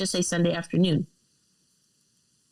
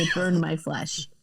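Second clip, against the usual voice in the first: softer mock Italian accent; 3 dB quieter than usual. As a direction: quieter imitation of a thick Italian accent. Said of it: "has a heavy Italian accent".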